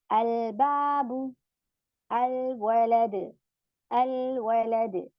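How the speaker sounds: अलबाबु and अलवलद very slow, with the l sounded; clear lam. Shown as a demonstration. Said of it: "जहाँ पे लाम पढ़ा जा रहा है".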